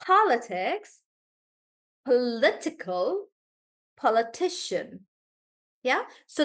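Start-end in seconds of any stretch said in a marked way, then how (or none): 0.0-5.0 politics, political, politician with the stress moving back; walk the stress back through each word; shifting stress. Shown as a demonstration. Teacher shows the class how the stress shifts. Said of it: "see how the syllable stress changes".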